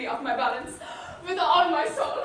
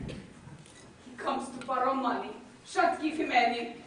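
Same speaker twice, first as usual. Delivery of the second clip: much softer, slow aside to the audience; a soft, slow stage aside; muttered aside; 2 semitones lower, 6 dB quieter than usual. Acted. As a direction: say it under your breath, away from the guest.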